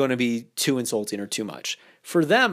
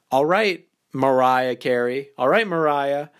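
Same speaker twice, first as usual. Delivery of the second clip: silly and playful; 3 dB louder, slower than usual. Shown as a demonstration. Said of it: "so you can be silly and playful".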